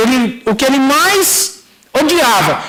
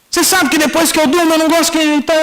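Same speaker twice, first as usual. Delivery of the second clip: higher-pitched grumbling, acted out; annoyed father; 7 semitones higher than usual. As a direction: imitate a father putting off his son. Father refuses to talk, retold.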